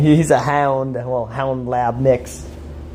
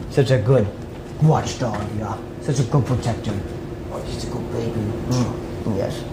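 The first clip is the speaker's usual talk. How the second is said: cooing to the dog; 6 dB quieter than usual. Real, not acted.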